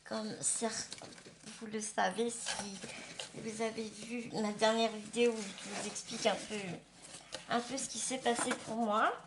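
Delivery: slushy lisp, s turning to sh; lisp after dental surgery. Real, not acted. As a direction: talk with a fresh post-surgery lisp. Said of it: "un peu avec un cheveu sur la langue".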